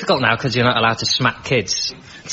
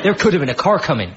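Birmingham dad; 5 semitones higher than usual. Retold or imitated. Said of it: "were from Birmingham".

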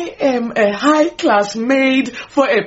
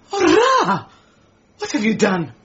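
shocked cry. Acted. Maid shocked by the marriage news.

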